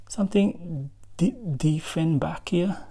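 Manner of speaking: "Dieffenbachia" attempted slowly after a false start; tentative pronunciation. Real, not acted. Vlogger trying a hard plant name for viewers, tentative "Dieffenbachia". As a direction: stumble on "Di-", then sound out "Dieffenbachia" slowly. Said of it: "try to pronounce it properly".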